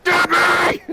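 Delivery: loud high shout of a name; yelled name. Acted. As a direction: call her name out loud. Calling out a name.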